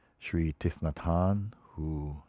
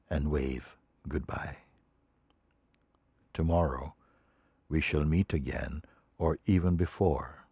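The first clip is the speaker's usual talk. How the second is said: solemn reading; 5 dB louder than usual. Acted. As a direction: let each phrase stand on its own. Reads a teacher's words aloud.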